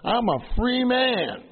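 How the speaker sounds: hammed-up graduate boasting; mock proud declaration. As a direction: proclaim your freedom grandly. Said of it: "you say".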